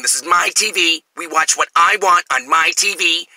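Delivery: lightly voiced roommate, slow and possessive; mimicked roommate. Roommate announcing the TV is his, slow and smug. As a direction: claim the TV, drawn out and smug. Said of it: "hanging out saying".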